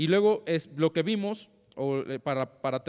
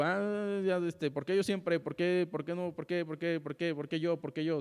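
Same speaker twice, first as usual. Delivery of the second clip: softer, sulky mutter of repeated complaints; grumbling child; 3 dB quieter than usual. Retold or imitated. Child grumbling at a parent's request, softer sulky whine. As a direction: whine it like a child who resents chores. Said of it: "refunfuñando".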